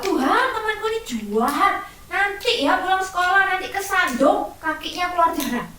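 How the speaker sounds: hammed-up vindictive kid; spiteful prayer. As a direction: pray for a bully's fall, a bit gleeful. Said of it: "terus kamu doa".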